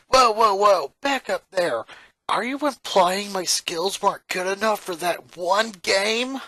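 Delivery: loud, sharp "whoa" then a bristling challenge; startled indignation. Acted. Lynn cuts off Lincoln, offended by his hint, loud indignant. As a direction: stop him cold, offended.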